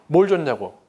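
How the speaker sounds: a touch of defiant scorn toward God; rejecting tone. Retold or imitated. Young man pushing God away, mildly defiant. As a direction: toss the question back, rejecting. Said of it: "하나님을 거부하는 투로".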